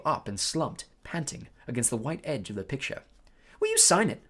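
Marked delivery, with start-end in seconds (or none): 3.6-4.3 high, loud eager plea. Acted. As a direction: ask like an excited fan. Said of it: "said Colin eagerly".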